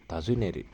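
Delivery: Tazuneru with the pitch going up and then down; careful demo of the pitch accent on Tazuneru; rising then falling pitch. Shown as a demonstration. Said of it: "Nah, dia naik turun".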